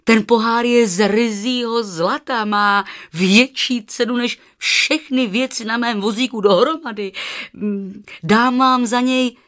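excited, emphatic outburst, high and loud; astonished exclamation. A narrator's reading. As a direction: exclaim the wonderful news at full voice.

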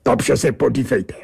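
the Angel of the Odd presenting himself grandly; the angel pinning the narrator to his chair, slow and pompous. Acted.

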